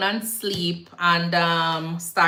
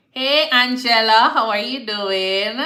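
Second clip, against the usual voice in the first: bright greeting; 4 semitones higher, 6 dB louder than usual. Real, not acted. Greeting a viewer on live.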